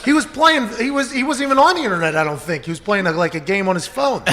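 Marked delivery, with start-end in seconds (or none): 0.0-2.1 laughing retelling. Real, not acted. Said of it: "laughing retelling".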